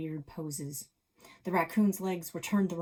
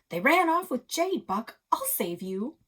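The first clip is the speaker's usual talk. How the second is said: higher, louder desperate vow; desperate cry; 7 semitones higher, 8 dB louder than usual. Acted. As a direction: promise to save him. Chase desperate promise.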